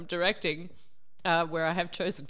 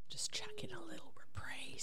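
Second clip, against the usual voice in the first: mock tearful whisper; 13 semitones higher, 12 dB quieter than usual.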